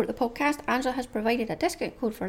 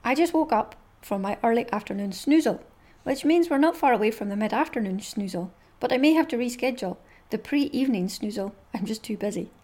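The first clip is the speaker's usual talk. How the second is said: dog's thoughts voice. Acted. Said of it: "I'll have to read you some more".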